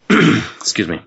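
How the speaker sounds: coughing, throat catching; clearing a choked throat; choking on a drink. Real, not acted. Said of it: "I'm choking".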